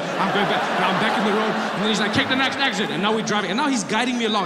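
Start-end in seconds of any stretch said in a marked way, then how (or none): 2.1-2.9 higher, curt navigation order; imitated cop as angry GPS. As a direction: give directions like an irate satnav. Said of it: "like I had a really angry G P S".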